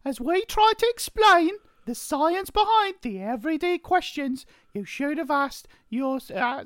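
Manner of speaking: put-on very high, piping young boy; high-pitched, hammed-up schoolboy. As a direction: squeak the intro out in a little boy's falsetto. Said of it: "good-looking boy".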